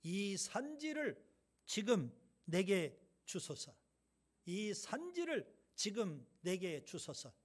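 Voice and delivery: slow, emphatic plea; forceful demand. Retold or imitated. Caleb demanding the hill country from Joshua, slow and forceful. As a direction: insist on it, word by word. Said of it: "강력하게 요구하는 이 말이죠".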